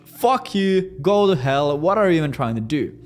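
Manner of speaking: high, slow, shocked outburst then angry yelling; a prospect exploding at a three thousand dollar quote, high and loud; outraged prospect. Retold or imitated. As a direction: play a furious client balking at the price. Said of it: "They're like".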